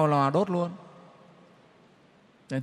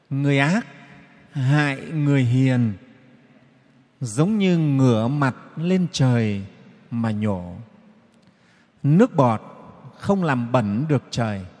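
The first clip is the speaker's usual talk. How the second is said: forceful preaching; 2 semitones lower, 5 dB louder than usual. Acted. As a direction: hammer home the Buddha's words. Quotes the Buddha's teaching.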